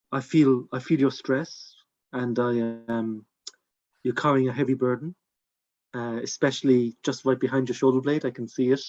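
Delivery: melodious voice. Acted. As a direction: lull him gently, like a calming healer. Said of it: "in his melodious voice".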